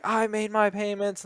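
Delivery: high, slow mock protest; indignant debtor. Mocking an angry debtor insisting to the repo man, high and drawn out.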